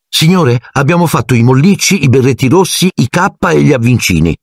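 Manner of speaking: lightly hurried schoolgirl answer; a touch of hurried eagerness. A narrator's reading. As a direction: rush it out a little, eager to answer. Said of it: "disse Hermione in fretta".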